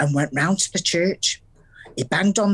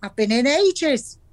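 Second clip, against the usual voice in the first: smug; 6 semitones higher than usual. Retold or imitated. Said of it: "and said smugly".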